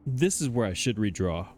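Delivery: talking through a yawn; words stretched by a big yawn. Real, not acted. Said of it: "Excuse me, I'm yawning".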